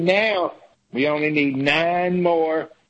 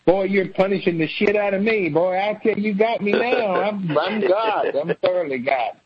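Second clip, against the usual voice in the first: higher, mock-wounded senator; sarcastic taunt; 4 semitones higher than usual. Senator mocking Democrats' punishment, sarcastic. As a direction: pretend to be hurt, with sarcasm.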